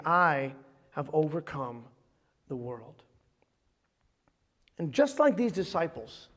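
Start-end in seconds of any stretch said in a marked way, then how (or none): 0.0-3.0 low, slow and soft, with weighty pauses; hushed preaching. Real, not acted. Pastor quoting Jesus to the congregation, hushed and solemn. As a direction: let it sink in gently. Hushed climax of the sermon point.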